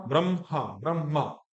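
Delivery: ब्रह्मा as "bram-ha, bram-ma"; m first, mispronounced. Shown as a demonstration. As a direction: lead with the m in ब्रह्मा, wrongly. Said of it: "जो कि अशुद्ध पाठ है".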